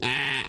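long throaty alpaca "aah"; comic animal noise; imitated alpaca bleat. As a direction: mimic an alpaca calling. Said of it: "and the alpaca went".

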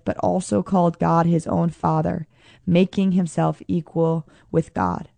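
measured, even Bible reading before the sermon; calm, formal reading voice; scripture reading. Acted. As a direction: read the passage steadily to the congregation. Reads scripture passage aloud.

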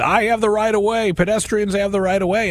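high-pitched imitation of an angry yeller; mock yelling. Jaywalker insisting on right of way to a driver, mock yelling. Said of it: "he started yelling at me".

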